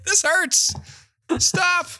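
very high, squeaky mock agony; hammed-up tiny voice in pain; suffering fish user. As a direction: wail as if being digested. Playing a fish being digested alive.

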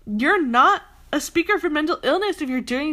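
half laughing, half ranting; ranting through a laugh. Real, not acted. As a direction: laugh through the words in disbelief.

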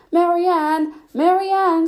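high calling shout of a name. Acted. Rabbit calling his servant, shouting high. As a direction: call up the house, loud and high.

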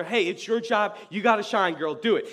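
acted-out push to a hesitant teammate; urging on. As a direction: egg her on, punchy and loud.

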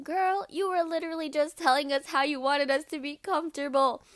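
whispered inner thought; thinking, not saying it, whispered. Retold or imitated. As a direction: hiss it to yourself under breath. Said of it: "in my head, I was thinking".

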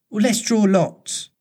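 steady herself and offer to draw lots; bravely. A narrator's reading. Wendy to Peter on the rock, bravely slow. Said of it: "Wendy said bravely".

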